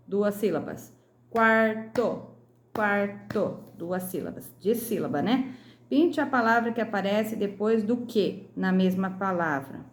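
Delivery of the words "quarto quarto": "quarto" split into quar - to; syllable by syllable. Shown as a demonstration. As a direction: pause inside "quarto" between quar and to. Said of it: "separe as sílabas das palavras destacadas". ("quarto" separado em sílabas, quar - to)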